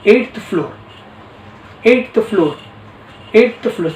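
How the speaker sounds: slow, drawn-out mechanical lift voice; lift announcement. Retold or imitated. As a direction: announce each floor slowly like an elevator speaker. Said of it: "ऐसा आवाज़ है".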